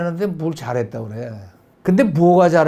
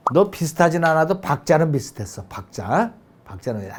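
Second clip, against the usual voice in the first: gentle praise. Shown as a demonstration. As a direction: coax the child kindly. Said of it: "칭찬을 하고".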